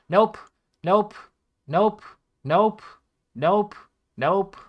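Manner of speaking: repeated nope. Real, not acted. Rejecting results one by one.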